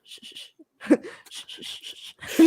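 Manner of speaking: whispered shushing through laughter; hushing. Real, not acted. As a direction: hush them, half laughing.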